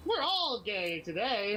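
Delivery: slow, drawn-out mock cheer; very sarcastic. Answering a bully's taunt, very sarcastic. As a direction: stretch it out with sarcastic glee. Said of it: "very sarcastic with people".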